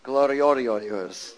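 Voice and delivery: slow drawn-out Gloriorios, every syllable stretched; hillbilly-style Gloriorios; mountain way of saying it. Retold or imitated. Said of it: "that's how they say it in the mountains".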